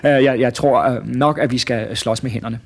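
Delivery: hesitant, stumbling reply; mildly rattled. Acted. Osvald sees Prop straighten the bar, mildly nervous hesitation. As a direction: falter a little as your confidence drains. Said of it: "han blev sådan helt bleg".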